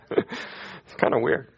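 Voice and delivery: hushed, slow whisper of the punchline; whispered aside. Real, not acted. Preacher whispers the joke again to his congregation. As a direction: lean in and whisper it to the room.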